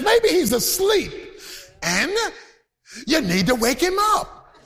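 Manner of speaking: sarcastic egging-on, mildly voiced; a touch of scornful teasing; mocking taunt. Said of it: "he mocks them".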